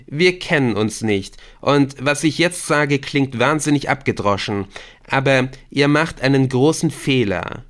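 insistent pleading to back off; urgent Victor. Acted. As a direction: reason with them emphatically. Victor argues with the captors.

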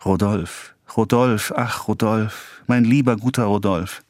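high, voiced tearful pleading; small, high voice of a weepy child; childlike tearful murmur. A narrator's reading. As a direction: repeat the name like a tearful child. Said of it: "flüsterte wie ein kleines Kind unter großen rollenden Tränen".

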